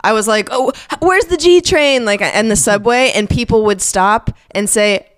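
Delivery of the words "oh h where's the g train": put-on sweet Southern accent, pitched way up; big Southern accent. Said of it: "I had a big accent".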